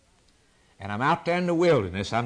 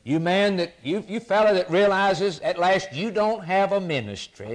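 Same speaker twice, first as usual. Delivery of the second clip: high, raised voice calling out to the prophet; calling the lonely prophet; 6 semitones higher than usual. Acted. Preacher voicing the call to the prophet, raised and high. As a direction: call him out into the wilderness. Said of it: "Now he says".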